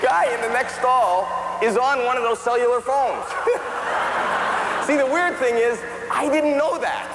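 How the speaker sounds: high cartoon kid voice telling a story; squeaky storyteller voice for the whole bit; Bobby voice. Stand-up clip, high voiced.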